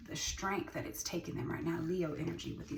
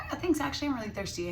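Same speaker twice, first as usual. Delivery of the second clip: eager thanks; 9 semitones higher, 6 dB louder, faster than usual. Retold or imitated. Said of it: "They're like".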